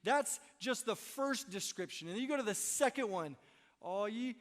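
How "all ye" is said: mock weary quote. Shown as a demonstration. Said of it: "Ugh, I'm already done".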